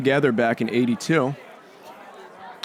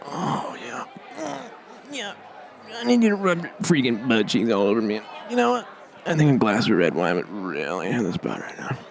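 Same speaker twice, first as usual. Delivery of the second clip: lightly voiced seductive couch, breathy opening; a couch purring at its owner; sultry couch. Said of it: "this is what my couch would say".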